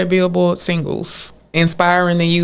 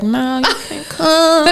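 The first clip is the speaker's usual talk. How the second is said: 1 mock stern mom; 8 semitones higher than usual. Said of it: "I was like".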